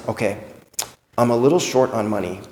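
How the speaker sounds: lightly voiced loved one making an awkward request; hushed mock-innocent request to a family member; sheepish plea. Loved one asking for help.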